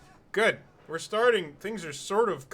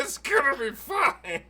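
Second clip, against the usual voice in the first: slow and higher, leaning on gonna; mock reassurance; 10 semitones higher, 6 dB louder, slower than usual. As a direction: drag out gonna in mock comfort. Repeats the line ironically.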